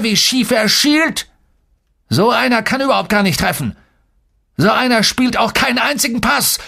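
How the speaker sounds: high-pitched public ridicule; scornful jeering. A narrator's reading. Coach shaming a player before his teammates, jeering. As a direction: hold him up to the team for mockery.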